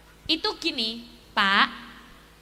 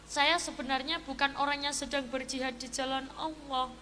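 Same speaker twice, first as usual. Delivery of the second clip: sad confession; 3 semitones lower, 7 dB quieter than usual. Acted. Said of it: "Sing premane langsung sedih".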